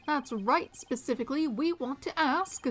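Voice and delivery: emphatic detective, ending in a laugh; lightly voiced detective. Detective refuses to reveal his questions, playfully emphatic. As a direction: play the lawman coyly holding back.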